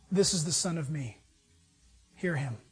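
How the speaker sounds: a hushed divine voice from above; voice from the cloud. Retold or imitated. God's voice from the cloud at the Transfiguration, low and hushed.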